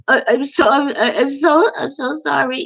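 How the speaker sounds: milk the sorry for pity; mock sorry whine. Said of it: "That's a pity party".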